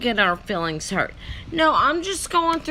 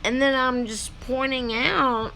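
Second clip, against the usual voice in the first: talking with caramel in mouth; words round a mouthful of candy; mouth full. Real, not acted. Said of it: "sorry, I have caramel in my mouth".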